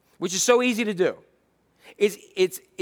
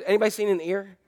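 searching Jesus; 3 semitones higher than usual. Acted. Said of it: "Jesus, like, goes".

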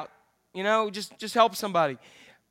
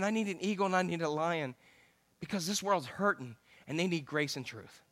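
God speaking quietly to pastor Jack, softened; gentle voice of God; 3 semitones lower, 8 dB quieter than usual. Acted. God's voice quoted to him.

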